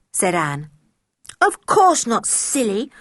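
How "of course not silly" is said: high, sharp, loud denial; girl denying an accusation to her cousin; indignant. A narrator's reading. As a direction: brush off the silly question with indignation. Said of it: "said George indignantly".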